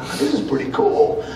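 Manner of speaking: high-pitched burst of excitement on cool; recalling being impressed, lightly; mild amazed thought; excited thought. Retold or imitated. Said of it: "and I thought".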